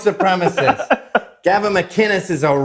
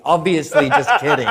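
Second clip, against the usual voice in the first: said through a laugh; laughing retraction; 5 semitones higher than usual. Retold or imitated. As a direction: laugh it off as obvious. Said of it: "And I went".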